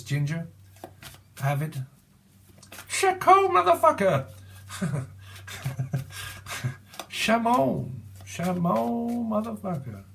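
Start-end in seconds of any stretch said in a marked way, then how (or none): 2.9-4.3 squealed shout. Acted. Shouting a catchphrase in a high voice. 7.1-10.0 high squeal. Acted. Repeating the catchphrase high.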